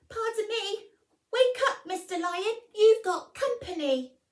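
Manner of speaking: high, loud squeaky mouse voice; a tiny mouse daring to wake a lion; timid little mouse. Acted. Mouse politely waking the sleeping lion, high squeaky.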